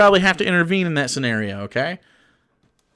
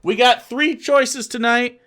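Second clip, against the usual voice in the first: mock parent offering choices; 6 semitones higher, slower than usual. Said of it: "your life will be a lot easier if you're like".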